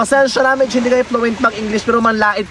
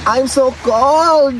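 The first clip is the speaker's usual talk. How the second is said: slow words, shivering with cold; much slower than usual. Real, not acted. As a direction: say it freezing and slow after a swim. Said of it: "giniginaw kami".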